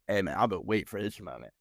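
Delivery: low, soft and savoring; hushed gloating; quiet relish. Retold or imitated. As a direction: murmur it like a long-awaited revenge. Relishing confrontation.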